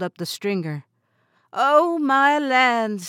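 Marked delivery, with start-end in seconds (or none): 1.5-3.1 higher, slow, drawn-out "Oh, my lands"; delighted exclamation. Acted. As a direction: savour the surprise. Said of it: "said Missus Jeanette".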